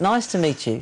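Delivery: put-on English accent. Asked during an interview to try one, greeting someone in an english accent. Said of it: "Can you do an English accent?".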